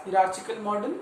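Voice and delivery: "hierarchical" said as hee-rar-chi-kal; own preferred pronunciation. Shown as a demonstration. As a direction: say "hierarchical" with "ch" as in church, not k. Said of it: "I pronounce it as". ("hierarchical" को "हिरार्चिकल" बोलें)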